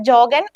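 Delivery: "ജോഗൻ" said jo-gen with English j; no ya sound. Shown as a demonstration. Teacher explaining a foreign word, "ജോഗൻ" with a j onset. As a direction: keep the j of jog in "ജോഗൻ", not a y. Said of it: "എന്ന് തന്നെയാണ് പറയുന്നത്".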